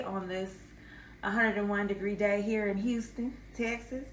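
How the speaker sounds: playful Texan accent, hammed up a little; mock Texan accent. Vlogger teasing her Texan viewers in a mock Texan accent. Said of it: "I shouldn't have did that accent".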